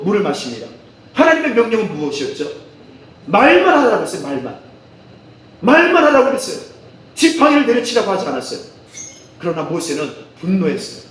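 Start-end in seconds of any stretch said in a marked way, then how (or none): 3.3-4.2 말만 pitched high and loud; stress on 말만. Real, not acted. Stresses the actual command. 5.6-6.7 말만 high and loud, then falling; stress on 말만. Real, not acted. Repeats command with stress.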